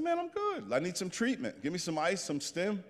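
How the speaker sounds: high-pitched "I'm fine" reassurance; high, insistent retold reply; breezy insistence. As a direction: act out brushing off the fuss, voice high. Acts out his insistent reply.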